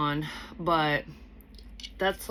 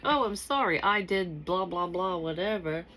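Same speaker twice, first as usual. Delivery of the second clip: mock apology; 2 semitones higher than usual. Imagining what this person won't say, mock apologetic. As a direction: toss off a pretend apology that trails into blah-blah.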